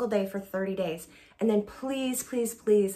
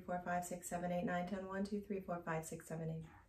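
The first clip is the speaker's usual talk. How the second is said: counting to ten, fading softer to the end of the breath; counting on one exhale; 5 dB quieter than usual. Shown as a demonstration. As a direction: let the count die away as the air runs out. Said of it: "now we're going to add voice".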